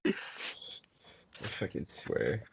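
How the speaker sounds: hushed so mom won't hear. Real, not acted. Friend keeping quiet on the call so mom won't hear. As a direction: drop to a hush, keeping it down at home. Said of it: "you're getting kinda quiet".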